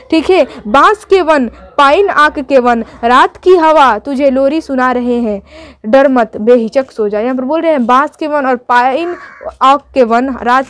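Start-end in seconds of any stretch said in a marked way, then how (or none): 0.7-7.2 slow, gentle lullaby reading of the poem; poem recitation. Acted.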